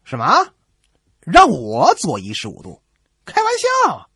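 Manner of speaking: indignant outrage. Acted. Captain outraged at the warship's order, shouting indignantly. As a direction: scoff at being ordered around. Other ship reacts to order.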